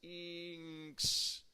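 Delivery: "inx" said on its own as a clear short ending; teacher isolating the ending "inx"; correct ending shown. Shown as a demonstration. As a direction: stress the "inx" sound. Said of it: "it's inx".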